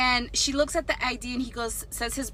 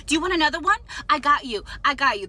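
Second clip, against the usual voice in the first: eager, louder and higher, sweet to the man; fawning waitress; 4 semitones higher, 5 dB louder, faster than usual. Retold or imitated. Waitress fawning over the husband, eager and louder. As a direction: gush to win the big tipper over.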